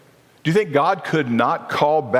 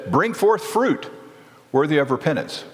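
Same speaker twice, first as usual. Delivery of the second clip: prophet's call; 4 semitones higher than usual. Retold or imitated. John the Baptist quoted preaching.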